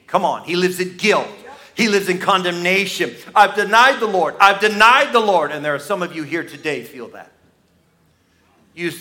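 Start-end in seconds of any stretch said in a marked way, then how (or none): 3.3-5.5 anguished lament. Acted. Peter voiced in his shame.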